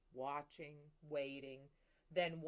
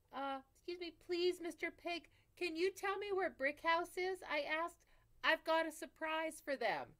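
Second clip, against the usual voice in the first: higher, louder sweet-talking wolf; polite wolf; 10 semitones higher, 8 dB louder than usual. Acted. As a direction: coax the pig with overdone politeness. Wolf asks at the door.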